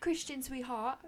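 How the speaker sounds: hammed-up Australian accent, sweetly teasing; mock Australian accent. Comforting husband Christian during an argument, in a jokey Australian accent. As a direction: play it as a bad Australian accent comforting him. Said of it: "It's Australian accent".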